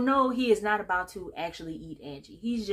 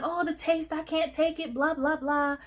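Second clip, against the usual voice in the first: hammed-up, high-pitched fussing; mock freak-out; 8 semitones higher than usual. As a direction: imitate someone making a scene. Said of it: "and he's freaking out".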